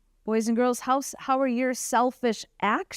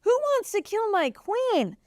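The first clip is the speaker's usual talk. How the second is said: slow, high, outraged question; the furious king demanding answers; storyteller voicing a mildly furious king; angry king; 10 semitones higher than usual. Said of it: "he's getting angry and upset".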